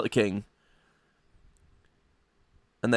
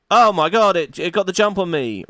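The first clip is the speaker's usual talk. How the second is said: mock panic; 5 semitones higher, 5 dB louder than usual. Scout attacked in the forest.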